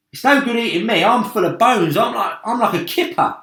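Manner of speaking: high, loud, whiny protest; frightened pleading. A narrator's reading. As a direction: beg to be spared. Earthworm pleads against being eaten.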